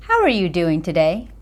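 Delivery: "How" lifted and fast, the rest rushed; stress on how. Shown as a demonstration. Speaker demonstrating inflection to viewers, stress on "How". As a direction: hit "How" first, then quickly through the line. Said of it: "It's the inflection of my words".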